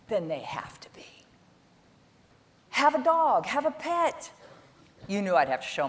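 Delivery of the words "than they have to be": whisper. Real, not acted. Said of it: "whispered tail of the sentence".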